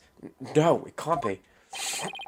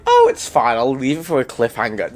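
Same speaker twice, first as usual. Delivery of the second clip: mock carefree; 6 dB louder than usual. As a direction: toss it off like nothing could go wrong. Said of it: "I was like".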